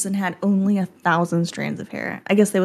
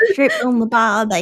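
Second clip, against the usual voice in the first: lightly copied bad Australian accent; imitated Australian accent. Listener echoing the Australian script, mock Australian accent. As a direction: echo the fake Australian. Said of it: "Australian accent".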